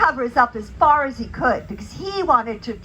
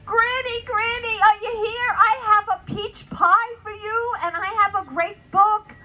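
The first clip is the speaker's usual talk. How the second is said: calling for Granny; 6 semitones higher than usual. Acted. Red Riding Hood calling Granny.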